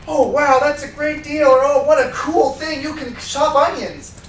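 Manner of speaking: high, gushing mock excitement; mock excited. Customer freaking out over a great deal, mock gushing and high. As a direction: overdo it like a cheerleader customer. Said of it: "freak out and be like".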